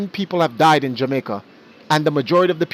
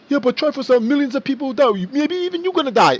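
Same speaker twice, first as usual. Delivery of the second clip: mocking high voice; 10 semitones higher than usual. Voicing an opposing person.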